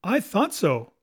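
triumphant cry; cried out. Acted. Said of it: "cried the cook".

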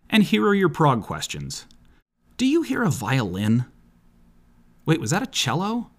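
lightly voiced metalhead dude; a hint of a dopey metal guy; Barry the Metal Guy. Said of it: "As a character called Barry the Metal Guy".

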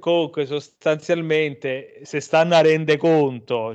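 put-on light Roman accent, slow and drawn; a hint of Roman romanista fan. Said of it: "mi rifiuto di fare la-, l'accento romanista".

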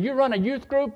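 high-pitched accusing question; mean and ugly. Retold or imitated. Irate father questioning the youth leader, mean and accusing. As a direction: mimic a hostile caller's interrogation. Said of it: "Real mean and ugly".

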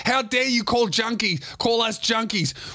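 high, fast indignant yelling; the girls refusing to get off; defiant teen girls. Retold or imitated. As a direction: fire back at the driver.

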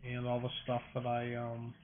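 talking through a yawn; words stretched by a yawn. Real, not acted. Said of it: "Sorry for all the yawning".

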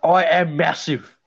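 slow, boastful mock Australian accent. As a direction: drag it out in a hammed-up Australian accent. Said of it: "you're still using an Australian accent".

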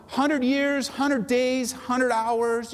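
building emphasis. Real, not acted.

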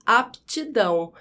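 "aptidão" with P and T each heard; both letters sounded. Shown as a demonstration. Teacher showing both letters are pronounced, clearly sounded. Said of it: "eu pronuncio essas duas letras".

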